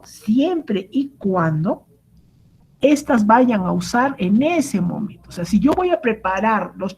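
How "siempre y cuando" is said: drawn out. Shown as a demonstration.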